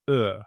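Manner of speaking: Ö said at the front with rounded lips; front rounded vowel. Shown as a demonstration. Teacher articulating Ö for learners, a front rounded vowel. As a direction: hold Ö as a rounded "eh". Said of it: "my mouth takes a round shape".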